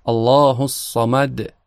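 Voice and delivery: احد ending in a slow bouncing د; qalqala on dal. Shown as a demonstration. Teacher reciting the verse to show the final bouncing dal. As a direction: let the final د of احد echo. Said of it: "در آیهٔ بعد دو تا دال".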